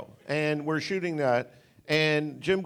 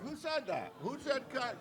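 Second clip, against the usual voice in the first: puzzled hushed asking; 8 semitones higher, 13 dB quieter than usual. Retold or imitated. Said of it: "And we're like".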